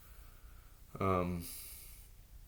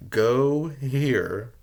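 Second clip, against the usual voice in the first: shouted plea; 8 dB louder than usual. Real, not acted.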